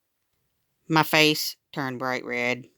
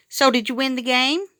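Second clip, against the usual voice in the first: curious question; 9 semitones higher than usual. A narrator's reading. Chelsea asks eagerly at lunch.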